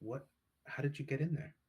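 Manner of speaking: ordinary talk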